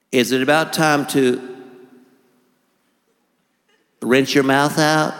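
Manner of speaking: slow, drawn-out dentist drawl with long pauses. Retold or imitated. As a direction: talk like a plodding old dentist. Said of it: "had a voice like this".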